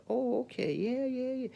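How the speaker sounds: high, far-off mock fluster; mock flustered yes-yes; flustered reply. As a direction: play it like a caught-out guy brushing her off.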